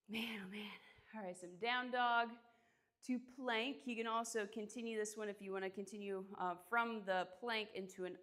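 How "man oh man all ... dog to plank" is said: 1 whispered. Real, not acted. Whispering while catching breath.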